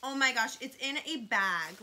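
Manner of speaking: loud, thrilled burst; genuinely delighted outburst; excited gasp. Real, not acted. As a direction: squeal over the package. Excited unboxing reaction.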